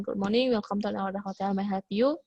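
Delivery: "Good morning, welcome to our hotel, may I help you?" on an even pitch; flat intonation demo. Shown as a demonstration. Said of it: "nggak boleh seperti itu".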